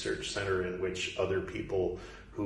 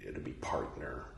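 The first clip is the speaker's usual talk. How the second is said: whispered aside; 7 semitones lower, 6 dB quieter than usual. Acted.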